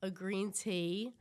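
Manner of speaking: slow, halting British put-on; attempted British accent. Guest retrying the breakfast challenge, in a careful British accent. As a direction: feel your way through a British accent. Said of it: "tea sounded really British".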